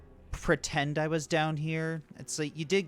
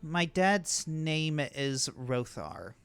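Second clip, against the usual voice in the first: slow, reluctant reply with a touch of resignation; mildly resigned, drawn-out answer; sighing admission; much slower than usual. Acted. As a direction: give up the name slowly, as after a sigh. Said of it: "he just kinda sighs and says".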